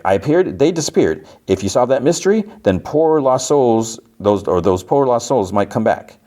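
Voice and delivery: high cartoon showman voice; imitated high-pitched cartoon character; Mister Ring-a-Ding. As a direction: tease the mystery in a high toon voice. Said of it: "Mister Ring-a-Ding's like".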